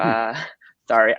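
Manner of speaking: embarrassed little laugh into an apology; nervous laugh. Real, not acted. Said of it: "I'm a little nervous".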